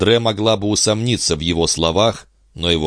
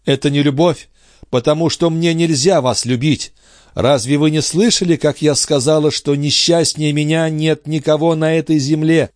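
put-on a young woman's higher voice in despair; grieving heroine, raised and higher; Andrée's anguished voice; 9 semitones higher, 3 dB louder than usual. A narrator's reading. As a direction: lament it, lifted and pleading. Andrée answering.

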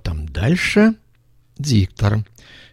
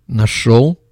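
rough voice; 2 semitones higher, 4 dB louder than usual. Acted. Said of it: "незнакомый грубый голос".

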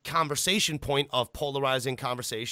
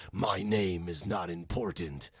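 much lower, slow gravelly killer voice; deep gravelly voice; 8 semitones lower, 4 dB quieter, slower than usual. Retold or imitated. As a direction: rasp it out low and slow. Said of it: "his deep, gravelly voice, he goes".

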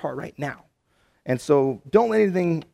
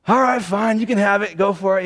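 higher, louder exasperated giving in; begrudging give-in; 5 semitones higher, 5 dB louder than usual. Retold or imitated. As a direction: hand over the fries with a huff. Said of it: "then I go".

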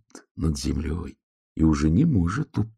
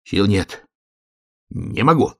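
lightly voiced worn-out hare; a touch of exhaustion, lifting higher at the end; exhausted hare; 3 semitones higher than usual. A narrator's reading. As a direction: give up like a tired little hare. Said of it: "сказал заяц".

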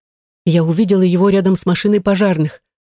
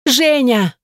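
high desperate call of a name; desperate scream; 7 semitones higher than usual. A narrator's reading. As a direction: cry out to him across the flames. Heroine screams husband's name at fire.

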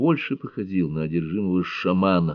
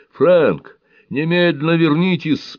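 much higher, louder frightened shout; 10 semitones higher, 6 dB louder, slower than usual. A narrator's reading. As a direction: call him back in terror. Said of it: "подхватил перепуганный Шелби". (испуганно кричит Фрэнку, намного выше и громче)

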